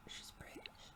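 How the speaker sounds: hushed whisper of a joke; whispered aside. Real, not acted. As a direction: whisper it like a secret jab. Mocking aside about character.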